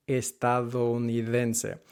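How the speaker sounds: Estadounidense slowly, soft d; slow careful Spanish. Shown as a demonstration. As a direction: say Estadounidense syllable by syllable. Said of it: "that de should be soft".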